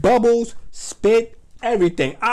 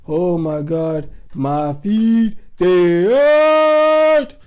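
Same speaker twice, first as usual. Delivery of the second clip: put-on wailing child, getting louder; crying in pain; 2 semitones lower, 7 dB louder, much slower than usual. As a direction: let the pain burst out at the end. Burned boy crying on couch.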